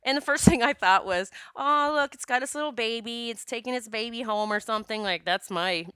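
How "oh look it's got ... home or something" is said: put-on naive childlike delight. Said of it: "little naive, childlike thinking".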